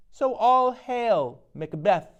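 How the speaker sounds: high, loud, slow witch cry; slow high eerie hail; witch chorus hail. Acted.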